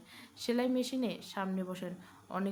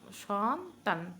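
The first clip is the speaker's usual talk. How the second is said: careful; much slower than usual. Acted. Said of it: "এবার বলুন সন্তান".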